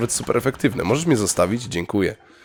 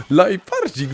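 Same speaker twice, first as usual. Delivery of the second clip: fond cooing; 7 semitones higher, slower than usual. Real, not acted. Settling down, second take.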